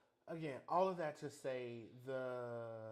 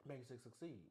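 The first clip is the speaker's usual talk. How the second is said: Makes it succeed, rattled off quickly; said fast; 7 dB quieter than usual. Shown as a demonstration. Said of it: "Say it real fast".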